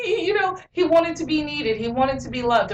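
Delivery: real emotion welling up as she explains; teary-eyed. Real, not acted. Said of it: "I'm getting a little teary-eyed".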